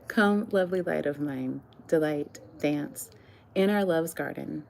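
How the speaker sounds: measured love-poem recital with pauses between phrases; poetry reading. Acted. Reads own love poems aloud.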